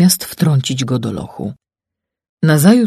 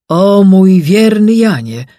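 higher, louder, slow cry; king calling out; 7 semitones higher, 8 dB louder, slower than usual. Acted. King cries out to his faithful servant, loud and slow. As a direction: call out to him with relief. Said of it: "król zawołał".

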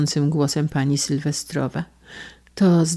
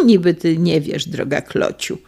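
sarcastic. Acted. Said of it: "z przekąsem".

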